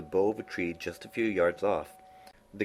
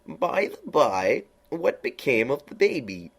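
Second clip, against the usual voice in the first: high, slow, drawn-out cat voice; lofty knowing cat, high and slow; Cheshire Cat voice; 8 semitones higher, 5 dB louder, slower than usual. A narrator's reading. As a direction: purr it out like a sly grinning cat.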